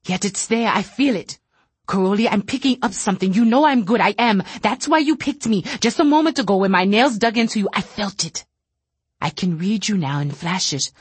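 agitated fear. Acted. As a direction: plead it in rising panic.

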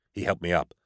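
usual speaking voice

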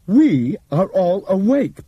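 Bob's precise voice. Acted. Bob addressing passengers over intercom, measured explaining voice. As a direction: explain it like a calm lecturer.

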